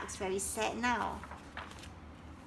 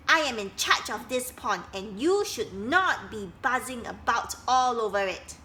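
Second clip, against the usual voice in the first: bossy scolding; 5 dB louder than usual. Acted. Duck scolding the dragonflies.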